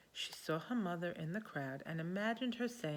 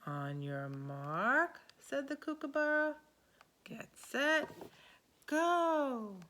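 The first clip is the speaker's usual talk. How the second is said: rising, louder starter's call; race starter kookaburra; 6 semitones higher, 3 dB louder, slower than usual. Acted. Kookaburra starting the race, building loud.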